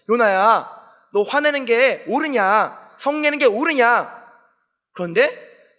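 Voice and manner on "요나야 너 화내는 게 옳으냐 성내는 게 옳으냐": lightly voiced God, slow drawn-out question. God questions angry Jonah, lightly voiced, slow questioning. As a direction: ask slowly, stretching the words a little. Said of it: "하나님께서 물어보십니다".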